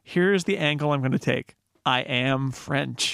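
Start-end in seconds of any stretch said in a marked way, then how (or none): 1.8-3.1 I am French dragged out very slowly, laughing; hammed-up French maitre d'. Host playing the maitre d' for friends, laughing and slow. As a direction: lay on the fake French pride with a laugh. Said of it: "I'm gonna play maitre d'".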